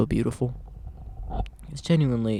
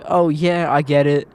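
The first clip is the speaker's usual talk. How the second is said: a louder, upbeat "oh yeah" that settles down; eager friend; 5 dB louder than usual. Retold or imitated. Friend relating to someone venting, loud and eager at first. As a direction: jump in keen to relate. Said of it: "then they're like".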